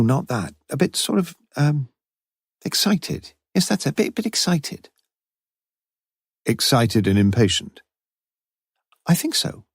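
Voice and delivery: a fluttery, uncertain landlady; flustered Mrs Jarman. Acted. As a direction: fumble for the word, pitch up. Narrator voices flustered Mrs Jarman.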